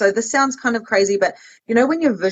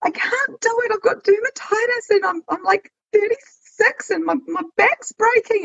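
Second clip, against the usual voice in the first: whiny retold complaint; 12 semitones higher than usual.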